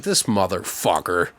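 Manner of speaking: a hint of a grumpy old actor sneering at a clown; imitating Sid. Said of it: "He was like".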